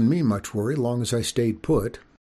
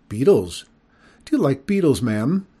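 put-on polite child; 3 semitones higher, 6 dB louder than usual. Nervous boy asks skunk.

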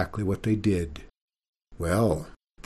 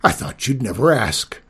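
lightly put-on dragon voice, louder; greedy dragon pleased with the deal; 6 dB louder than usual. A narrator's reading. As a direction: let the dragon gloat a little.

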